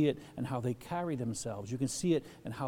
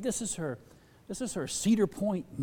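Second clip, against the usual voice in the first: ordinary talk, nothing marked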